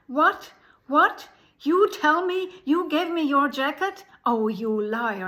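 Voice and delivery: loud, high, outraged yelling; angry shout. A narrator's reading. Pub owner shouting at the begging girl, furious and loud. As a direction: bellow it at the lying girl. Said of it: "the pub owner became so angry and said".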